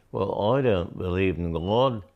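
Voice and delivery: put-on a light, rough Australian accent on the quote; imitating an Australian man sceptically. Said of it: "I'm sorry if I have the accent wrong".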